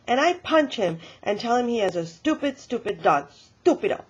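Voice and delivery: a hint of childish fury; lightly acted tantrum; mock angry insult.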